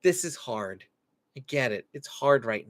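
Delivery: soft, slowing at the end; calm acknowledgement. Shown as a demonstration. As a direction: gently agree that it's hard. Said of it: "We're just saying".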